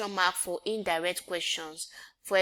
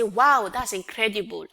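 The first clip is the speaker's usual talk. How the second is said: exclaimed; 5 dB louder than usual. Shown as a demonstration. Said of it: "I will not say".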